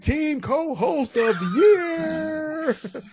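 slow, drawn-out ringmaster call. Acted. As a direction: stretch it out like a circus announcer. Ringmaster announcing the co-host.

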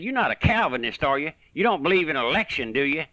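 mock incredulous quiz, pitch hopping up; imitating challenging preacher. Preacher quizzing the speaker on his beliefs, imitated challenge. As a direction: quote his doubting challenge, tag questions tacked on. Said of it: "Just like that. That's the way he said it".

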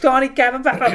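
mock high-pitched yell in a Boston accent; screechy parody of a Boston woman's accent; angry Boston girl. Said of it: "like, a girl, like".

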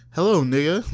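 stiff, over-enunciated "Hello, nigga"; unnatural greeting. Shown as a demonstration. Outsider greeting a friend, awkwardly forced. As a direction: say it like unfamiliar slang, "Hello" swooping. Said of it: "if it feels like you don't say".

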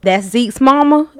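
lightly put-on country twang; demonstrated country accent. Shown as a demonstration. Showing the Northerners what country is, light country accent. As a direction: show them a country accent. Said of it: "That's country".

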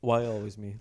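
Italian-tinged; Balotelli quote. Shown as a demonstration. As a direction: correct the quote with an accent. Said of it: "Listen back".

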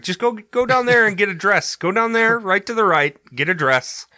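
overacted mob wife pushing her to go; gangster impression. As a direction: coax her down the alley, hammed-up. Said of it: "He's like".

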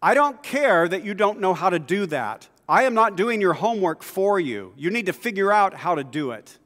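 firm, loud telling-off. Retold or imitated. Boy refusing the bully's homework demand, firm and loud. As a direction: plant your feet and say it loud. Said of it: "So I said in a really loud voice".

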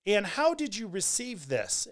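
mildly suspicious retold query; hint of animosity. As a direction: read it out with a slight edge. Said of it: "there's probably some animosity in there".

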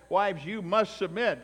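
imitating a preacher's emphatic command. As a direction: bark it like a harsh pulpit order. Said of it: "this idea of an emphatic".

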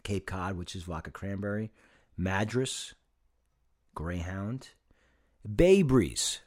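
slow list with pauses between names; low, spaced-out drink list. Shown as a demonstration. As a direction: read out each drink separately, low and unhurried. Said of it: "I'm gonna say it slow".

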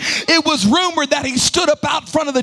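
chanted sermon over music, building; rising preached litany. Acted. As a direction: build the rumor list toward a peak.

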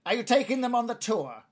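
high-pitched goblin query; questioning goblin. Acted. Goblin checking on a supposed tour guide, high questioning voice.

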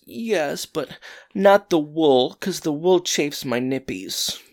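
high whiny sick husband; grossest whiny voice. Retold or imitated. Husband whining to his wife from the couch. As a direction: whine it like a pouting child. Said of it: "the grossest whiny voice".

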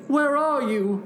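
high, calling character voice; storybook toad searching. A narrator's reading. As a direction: call out for a missing friend. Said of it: "said Toad".

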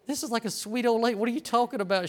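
incredulous. Retold or imitated. Incredulous reply to coworker's accusation.

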